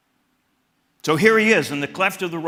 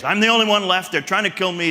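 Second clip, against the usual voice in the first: louder, self-pitying whine; pity party; 6 semitones higher, 6 dB louder, faster than usual. Acted. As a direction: whine like a sulking prophet. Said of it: "pity party".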